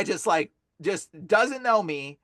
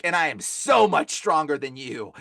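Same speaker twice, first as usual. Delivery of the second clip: lightly voiced boastful demon; a hint of a demon, measured and superior; retold demon boast. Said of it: "and the demon speaks through him".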